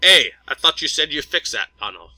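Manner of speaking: lightly voiced English commander scolding; annoyed English officer. A narrator's reading. English commander turning to scold a crewman, mildly annoyed English accent. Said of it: "then to someone Leo couldn't see".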